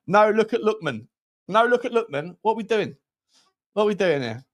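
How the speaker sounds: awful mock Belfast accent. Streamer answers jibe about his Belfast accent, hammed-up Belfast accent. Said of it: "My Belfast accent is awful".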